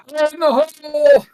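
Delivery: loud, slow charging yell; battle cry. Acted. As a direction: bellow it as you charge in. Player shouts as character charges in.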